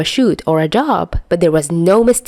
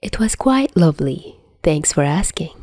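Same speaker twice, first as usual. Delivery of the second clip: graceful. Acted. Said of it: "replies as graceful as ever".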